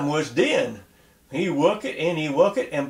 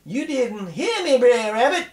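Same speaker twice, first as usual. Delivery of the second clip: mock shout; 7 semitones higher than usual. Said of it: "he shout".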